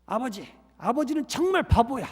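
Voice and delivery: a girl crying to her pastor, imitated; crying on the phone. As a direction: plead through imagined tears. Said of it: "막 울면서 그러더래요".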